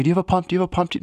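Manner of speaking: mock passerby. Passersby voiced, retold.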